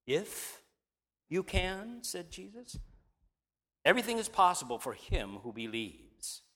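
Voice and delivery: measured, lightly dramatized Bible reading; reading scripture aloud, voicing the figures lightly. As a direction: read the passage to the congregation. Reads the Gospel passage aloud.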